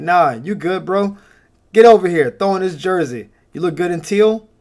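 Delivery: hyped-up recruiter. Retold or imitated. Recruiter pulling in a fan.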